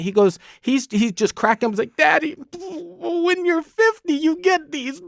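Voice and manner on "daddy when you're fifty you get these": put-on a higher, slow child's voice, giggly; imitating his son. A father mimicking his son handing him the AARP letter, higher childlike. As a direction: play the nine-year-old gleefully teasing dad. Son teasing about turning fifty.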